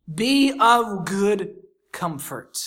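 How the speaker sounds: slow and tender, like soothing a frightened woman; gentle comfort. Acted. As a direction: ease her fear, very slowly.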